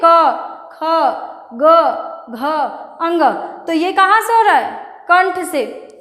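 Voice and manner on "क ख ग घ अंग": क, ख, ग, घ, अंग said one by one with pauses; slow demo letters. Shown as a demonstration. Teacher sounding out the velar consonants, slow and deliberate. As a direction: sound out each throat letter slowly. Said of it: "जैसे देखिए".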